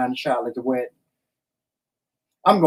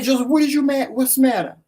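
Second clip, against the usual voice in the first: worried wife; 9 semitones higher than usual. Retold or imitated. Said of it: "I'm like".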